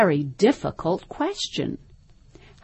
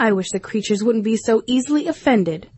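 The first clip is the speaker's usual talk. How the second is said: Alice's voice; 4 semitones higher, faster than usual. A narrator's reading. Alice thinks to herself.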